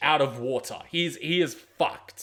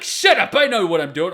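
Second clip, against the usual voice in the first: high, loud bratty snap that settles back down; mock defiant retort; 4 semitones higher, 8 dB louder than usual. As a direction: imitate a know-it-all shouting back. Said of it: "They're like".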